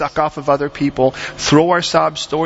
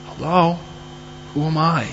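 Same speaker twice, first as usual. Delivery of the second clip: put-on little boy; 3 semitones higher, 4 dB quieter than usual. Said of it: "And the boy's like".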